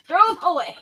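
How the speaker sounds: high-pitched imitation, mock dismissive; hammed-up order from a fed-up tradesman; old German repairman. Scissors man rejecting her scissors, mock dismissal. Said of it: "that's how he talked".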